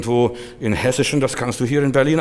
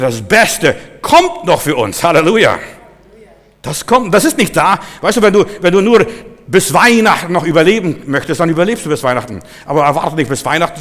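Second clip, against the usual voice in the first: louder, driving sermon delivery; emphatic preaching; 4 semitones higher, 6 dB louder than usual. Real, not acted. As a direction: preach it with rising force. Preaches with force. (eindringlich gepredigt)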